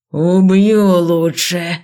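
slow, loud drawn-out threat; slow furious threat. A narrator's reading. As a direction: drag each word out in rage. Dean threatens murder.

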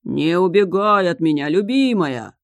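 booming lovesick king; thundering. Acted. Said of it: "гремел морской царь".

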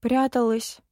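put-on small, crestfallen girl's admission; downcast. A narrator's reading. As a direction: admit it, mildly dejected. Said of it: "понурилась девочка".

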